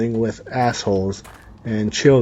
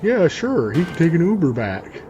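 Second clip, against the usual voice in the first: mocking mom voice; 5 semitones higher than usual. Voicing the mom.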